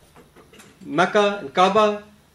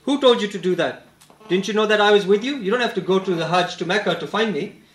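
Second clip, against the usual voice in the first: lightly acted telling-off, slightly raised; mild scolding. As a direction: retell a reproachful scolding, picking up pace. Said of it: "he scolded me and said".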